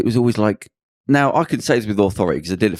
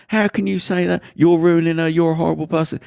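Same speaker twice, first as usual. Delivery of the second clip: acted high-pitched indignant protest; mock outrage, pitched up; indignant friends; 8 semitones higher than usual. Girl's friends kicking off at the doorman, mock indignant.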